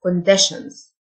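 "conditions" with -tion said "shan". Shown as a demonstration. Teacher showing students the "shan" sound in "conditions". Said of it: "ال تي آي أو إن تنطق شن".

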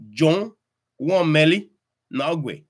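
"won" rising high in village speech. Shown as a demonstration. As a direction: quote the villagers saying it. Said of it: "they say Meli".

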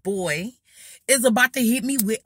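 high, loud strangled mock scream; retold panic. Girl cornered as the garbage can flies at her, mock panicked squeal. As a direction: squeal it as if ducking a flying object. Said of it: "So I ducked down like".

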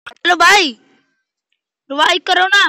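loud pleading call; panicking gamer. Real, not acted. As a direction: yell for a revive, urgent. Begging teammate for revive.

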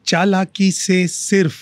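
slow, measured verse with long pauses; unhurried mushaira-style recital; poetry recitation. Acted. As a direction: recite it as a couplet, drawing out the words. Recites own couplet to host.

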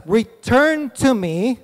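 slow, weighty call; voice of God. Acted. The Lord calling the Israelites back, slow and solemn. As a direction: plead slowly and gravely as the Lord. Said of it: "He says".

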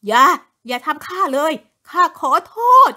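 man begs his dead wife for forgiveness, crying; crying plea. A narrator's reading. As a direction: beg for mercy through tears. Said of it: "ไอเสียงติดๆขัดๆ".

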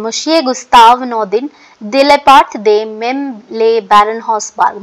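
slow, careful reading of the card. Shown as a demonstration. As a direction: read the name slowly, word by word.

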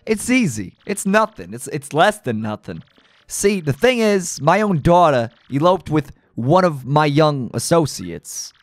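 gruff gangster boss, amused then menacing; a hint of a New York mob boss; tough mob boss. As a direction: lean into the Don's threats. Reads mob boss and henchmen dialogue.

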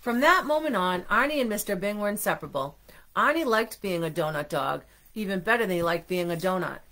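lively read-aloud narration; storybook reading. A narrator's reading. Parent telling children how the friends became inseparable, lively storybook reading. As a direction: carry little listeners along to the happy ending.

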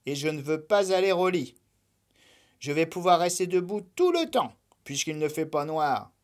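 a small bunny insisting he won't sleep; stubborn little rabbit. Acted. Lapin's voice refusing bed.

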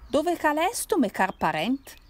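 put-on loud Piedmontese drunk calling out; strong Turin accent. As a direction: shout it in thick Turinese dialect. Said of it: "con stretto accento torinese".

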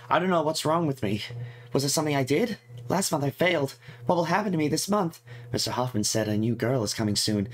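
lightly voiced fretful girl reading her diary. Player voicing the game character's diary entries, lightly fretful. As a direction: read it as a worried schoolgirl's diary, lightly put on. Reads Amanda's diary aloud.

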